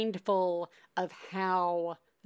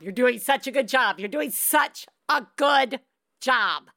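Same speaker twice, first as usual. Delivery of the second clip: emphatic reassurance; 2 semitones higher, 5 dB louder than usual. Real, not acted. Host firmly insisting to a tired mom.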